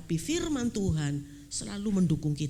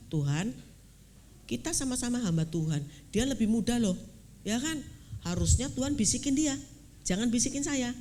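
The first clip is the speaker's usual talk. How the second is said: raised, insistent protest to God; arguing with God; 3 semitones higher than usual. Retold or imitated. Pastor retelling how he argued with God, a mild indignant protest. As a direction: push back at God like a wronged elder. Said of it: "debat-debatan sama Tuhan".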